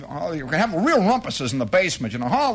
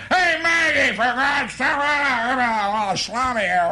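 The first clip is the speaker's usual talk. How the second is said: hollering; 8 semitones higher, slower than usual. Acted. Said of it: "you don't holler".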